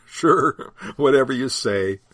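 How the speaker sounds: dad smiling at the disciples; laughing. Acted. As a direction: laugh it off good-naturedly. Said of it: "Dad cracked a big smile and said".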